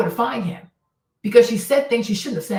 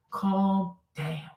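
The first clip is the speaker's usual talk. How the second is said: soothing hush; 3 semitones lower, 6 dB quieter than usual. Shown as a demonstration. Soothing an upset friend.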